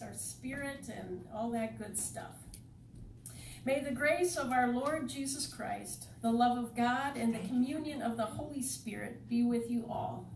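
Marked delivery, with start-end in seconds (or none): 3.6-10.3 measured blessing addressed to the congregation; liturgical greeting. Acted. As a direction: bless the room in formal worship cadence.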